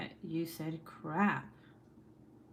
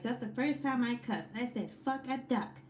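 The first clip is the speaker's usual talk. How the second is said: lightly voiced sweet older therapist, higher; cute older lady; 5 semitones higher, 3 dB quieter than usual. Streamer imitates therapist confessing her first cuss, cute older lady. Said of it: "she's so cute".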